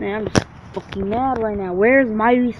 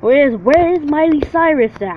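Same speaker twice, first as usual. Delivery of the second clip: higher, louder, demanding shout; frustrated yell; 6 semitones higher, 5 dB louder than usual. Real, not acted. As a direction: bellow it out across the schoolyard. Yelling while hunting for a singer.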